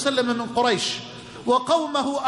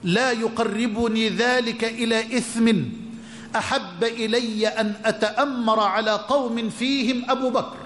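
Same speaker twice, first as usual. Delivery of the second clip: savoring quote; 3 semitones lower than usual. Retold or imitated. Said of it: "العبارة اللي أنا قلتها الجميلة".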